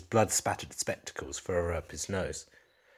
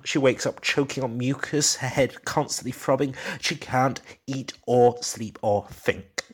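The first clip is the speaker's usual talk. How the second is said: distraught husband; 9 semitones higher, 5 dB louder than usual. Acted. Distraught husband confessing to detective.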